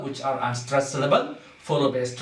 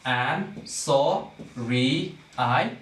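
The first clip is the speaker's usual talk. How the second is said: "and sorry I" very slow, each syllable apart; much slower than usual. Shown as a demonstration. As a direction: break "sorry" into two drawn-out syllables. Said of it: "what is happening in this case".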